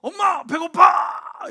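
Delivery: high, loud, drawn-out shout for mom; bursting in the door yelling for mom; kid's shout. Retold or imitated. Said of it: "문을 빵 차고 뭐라 그래요?".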